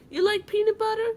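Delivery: high, mock Southern twang; mimicking Jade. Aunt mimicking Jade's twang to her friends. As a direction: pitch it up like a little Southern girl asking. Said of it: "she goes".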